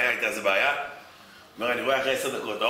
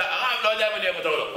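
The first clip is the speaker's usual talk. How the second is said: higher, unsure shrugging reply; hesitant husband; 7 semitones higher, faster than usual. Retold or imitated. Husband answering the rabbi, higher and hesitant. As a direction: waver over the answer.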